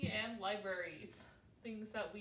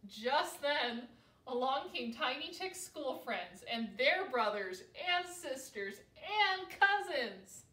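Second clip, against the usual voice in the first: ordinary delivery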